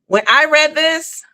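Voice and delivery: high, slow stunned delivery; exaggerated astonishment. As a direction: stretch it out high, playing up the disbelief. Repeats the shocked reaction, toned down.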